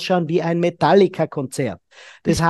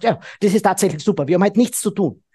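fast, rushed agreement; hurried; much faster than usual. Retold or imitated. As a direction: rattle it off too quickly for a relaxed partner. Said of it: "Dann fühlt sich ... gestresst". (hastig und schnell)

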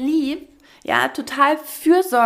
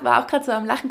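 usual speaking voice

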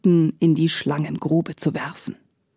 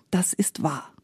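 softer, half-murmured confession; murmured admission; 7 dB quieter than usual. A narrator's reading. Shamefaced maid confesses to Espen from the sack, murmuring. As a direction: murmur it softly. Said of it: "murmelte sie".

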